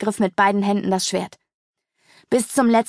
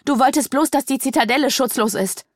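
shocked realization; 5 semitones higher than usual. A narrator's reading. Sedonia realizes his betrayal.

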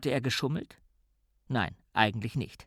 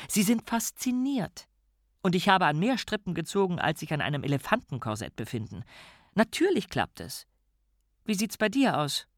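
higher, lively woman's voice; a bright, enthusiastic woman; higher character voice; 6 semitones higher than usual. A narrator's reading. Figurenstimme, höher gesprochen. (höhere Frauenstimme)

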